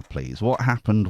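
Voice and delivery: ordinary talk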